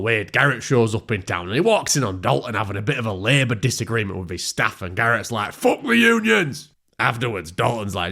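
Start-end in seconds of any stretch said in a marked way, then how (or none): 5.5-6.7 high, slow, stretched-out squeal; squeaky slow cry. Acted. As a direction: drag it out in a silly falsetto. Garrett's outburst.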